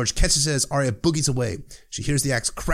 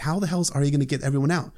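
ordinary delivery

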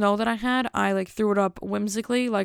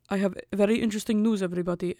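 put-on light Russian-accented boss; lightly imitated Russian accent; faster than usual. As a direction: mimic a Russian boss announcing. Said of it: "so he talks like this".

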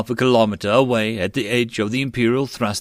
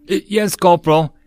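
a jumpy, higher, louder stutter; stammering fear; 7 semitones higher, 6 dB louder than usual. Acted. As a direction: blurt it out with a gun in your face. Dissenter facing cocked rifle.

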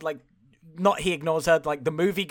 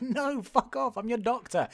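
mock indignant refusal; 5 semitones higher than usual. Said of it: "And she's like".

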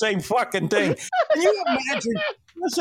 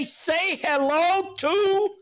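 coaxing the catchphrase; 12 semitones higher, much slower than usual. Shown as a demonstration. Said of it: "you gotta say".

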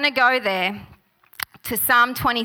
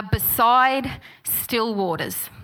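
slow, deliberate; slower than usual. Shown as a demonstration. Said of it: "And they are".

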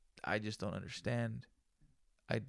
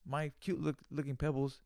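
teasing brag. Pretend. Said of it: "I'm just fucking with you".

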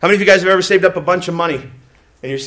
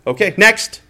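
dismissive cashier; 4 semitones higher, 3 dB louder, slower than usual. Retold or imitated. Cashier dismissing him, acted.

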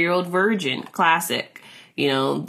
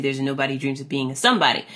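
fast; 4 semitones lower, much faster than usual. Shown as a demonstration. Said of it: "versus the tagline".

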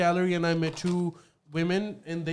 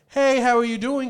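cheery greeting; 7 semitones higher, 7 dB louder than usual. Retold or imitated. Friendly greeting locals didn't give.

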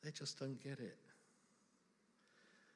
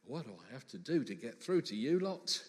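exasperated; 4 semitones lower than usual. Acted. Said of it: "as well as probably a little bit of".

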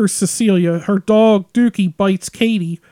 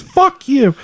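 put-on bratty kid retort; 5 semitones higher than usual. Bully kid swearing back at the mom. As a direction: spit it back like a rude kid. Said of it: "He just turns around and goes".

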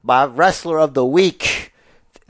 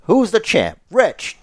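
wrestling promo; 6 semitones higher, slower than usual. Acted. Wrestling promo call-and-response.

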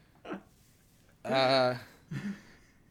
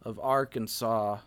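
put-on vocal fry Southern accent. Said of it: "It's like a vocal fry Southern accent".

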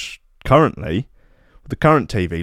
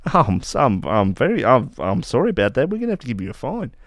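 Australian border officer; 2 semitones higher than usual. Acted. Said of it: "an Australian gentleman is like".

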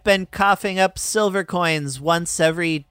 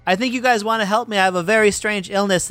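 yell out; 6 semitones higher than usual. Acted. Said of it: "yell out".

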